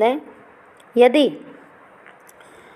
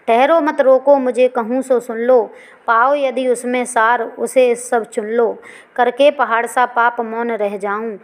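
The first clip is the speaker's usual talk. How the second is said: poem recitation. Acted. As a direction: recite the stanza like a poem to the class.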